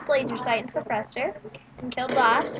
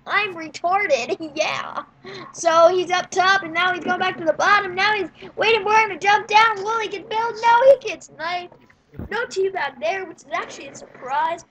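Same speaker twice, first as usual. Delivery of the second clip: breathless running game commentary; lively sportscaster-style game call; live play-by-play; 5 semitones higher, 5 dB louder than usual. Real, not acted. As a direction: call every move as it happens, raised pitch.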